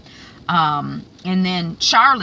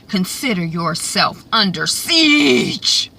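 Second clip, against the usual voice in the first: slow threat; slower than usual. Retold or imitated. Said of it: "Quig is like".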